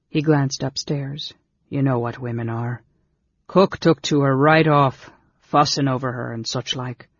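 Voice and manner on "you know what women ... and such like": lightly voiced rustic innkeeper. Innkeeper telling strangers of the cook's fondness, plain-spoken. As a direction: explain it as a plain country innkeeper. Innkeeper's figure in read story.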